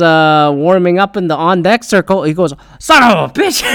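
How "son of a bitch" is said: put-on a kid's stunned, higher-pitched curse; awed curse. Kid spots his idol, mutters in awe. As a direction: blurt it out in sheer amazement.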